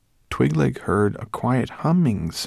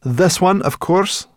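Sorrel voice; 12 semitones higher, 8 dB louder, slower than usual. Acted. Sorrel answering, raised voice.

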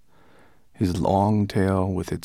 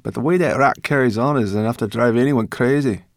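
grumbling brownie; 5 semitones higher, 6 dB louder than usual. A narrator's reading.

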